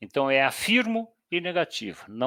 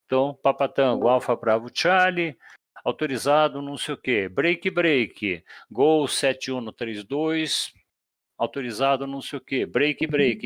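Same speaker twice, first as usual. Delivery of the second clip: demonstração de fonia. Shown as a demonstration. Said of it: "usando o break, break".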